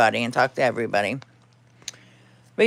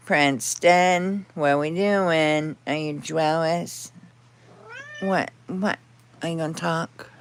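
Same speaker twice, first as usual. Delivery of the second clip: talking to the dog; slower than usual. Real, not acted.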